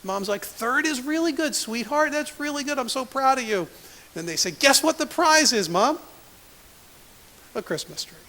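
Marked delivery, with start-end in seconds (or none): 0.4-3.7 proud mom. Retold or imitated. Mom praising daughter. 4.5-6.0 put-on teasing kids.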